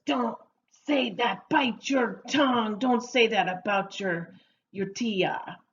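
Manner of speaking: lightly acted telling-off; a hint of a mother cautioning her child; scolding mother. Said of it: "from a mother to maybe her hijo".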